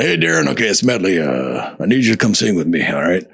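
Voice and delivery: lightly voiced deep, rumbly singer on the phone; a famous singer. Singer phoning a friend to come sing, lightly imitated deep voice. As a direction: drop into a casual low voice, imitating him. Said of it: "that big, deep voice of his".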